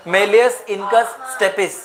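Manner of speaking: "malleus incus stepis" spaced out very slowly, word by word; teacher dictating the bone names slowly to the class; slow dictation. Shown as a demonstration. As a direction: spell out "malleus incus stepis" slowly so students can write it down.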